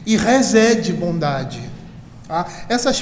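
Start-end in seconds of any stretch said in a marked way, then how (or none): 0.2-0.9 careful attempt at Hebrew "resede"; Hebrew pronunciation. Shown as a demonstration. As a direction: sound out "resede" slowly, as a cited Hebrew word. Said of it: "minha pronúncia de hebraico é horrível".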